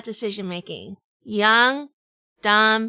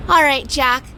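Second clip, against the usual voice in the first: higher, louder coaxing question; the wife quizzing Jack, higher and louder; teasing wife; 5 semitones higher, 4 dB louder than usual. Acted. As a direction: coax the answer out of him.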